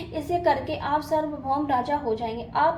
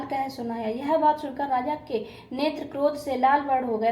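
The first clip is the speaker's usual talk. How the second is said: steady scripture recitation with small stumbles and restarts; devotional story reading. A narrator's reading. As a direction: read a Hindu vrat katha aloud. Reads the katha aloud.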